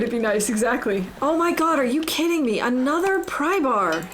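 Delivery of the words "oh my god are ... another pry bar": surprised. Real, not acted. Finds yet another pry bar.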